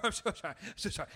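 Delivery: lightly put-on high lady voice; apologetic neighbour lady. Man imitating neighbour coming downstairs, high apologetic voice. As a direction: imitate her repeated apology. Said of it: "and she's like".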